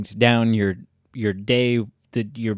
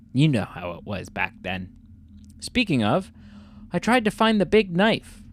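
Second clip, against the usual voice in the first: put-on English accent. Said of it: "read this in an English accent".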